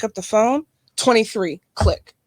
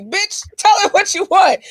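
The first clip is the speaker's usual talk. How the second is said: shouted, higher self-scolding; mad at herself; 9 semitones higher, 3 dB louder than usual. Retold or imitated. Scolding her thirteen-year-old self with a laughing shout. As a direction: yell at your younger self, half laughing. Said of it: "I was so mad at myself".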